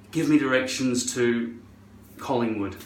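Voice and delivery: low-key Scottish request; own Scottish accent. Retold or imitated. Talking to Siri in their own Scottish accent. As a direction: ask plainly in a Scottish accent. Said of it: "I say in my accent".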